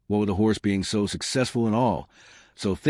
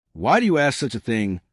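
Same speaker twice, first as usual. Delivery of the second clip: mild angry; 3 semitones higher than usual. Acted. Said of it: "the woman said angrily".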